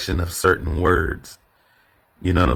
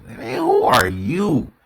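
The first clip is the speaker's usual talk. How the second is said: higher, slow scornful who are you; scornful challenge; 13 semitones higher, slower than usual. Shown as a demonstration. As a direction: demand it with contempt. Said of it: "Now I'm asking that question".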